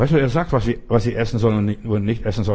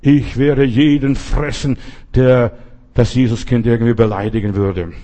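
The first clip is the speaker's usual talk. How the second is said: lion's roar; 5 dB louder than usual. Acted. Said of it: "brüllte er".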